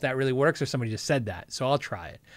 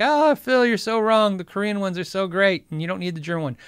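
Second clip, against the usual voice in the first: mock commenter; 3 semitones higher than usual. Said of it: "some guy's like".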